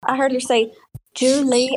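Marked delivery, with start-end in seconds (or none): 1.1-1.7 put-on failed try at an Australian accent; a hint of badly faked Australian; attempted Australian accent. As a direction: imitate an Australian saying it, unconvincingly. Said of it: "I can't do the Australian accent".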